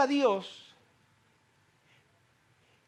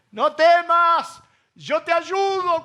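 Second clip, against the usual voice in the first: slow reassuring; 4 semitones higher, 5 dB louder, slower than usual. Acted. Quoting God, slow and loud.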